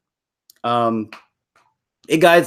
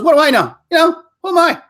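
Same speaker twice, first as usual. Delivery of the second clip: high, loud mock self-deprecating comic; hammed-up modest comedian voice; Bill Burr; 12 semitones higher, 5 dB louder, faster than usual. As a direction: shrug it off like a fake dummy. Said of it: "he goes".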